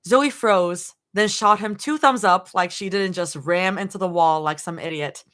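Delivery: measured storytelling read-aloud; lightly performed audiobook narration; story narration. A narrator's reading. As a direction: narrate in short, deliberate phrases. Reads fan fiction aloud.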